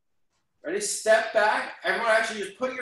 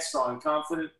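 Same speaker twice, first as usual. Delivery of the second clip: confident; 5 semitones higher than usual. Shown as a demonstration. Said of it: "just raise your hand".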